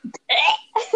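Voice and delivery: mock retching noise; gagging sound. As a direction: make a joking gag of disgust. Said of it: "just gagging sounds".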